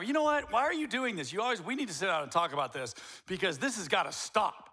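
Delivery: mock the spouse who blows up at once; a hammed-up overreaction to a first offence; mock overreacting spouse.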